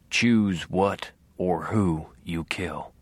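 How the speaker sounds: 1 ghost voice. A narrator's reading. Harry's ghost advising.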